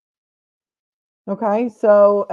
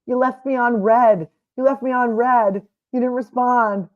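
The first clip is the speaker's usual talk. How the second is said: lightly voiced teen complaint, a little higher; mock young teen; 4 semitones higher than usual. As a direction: imitate a pouting twelve-year-old. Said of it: "like he's twelve or thirteen or fourteen".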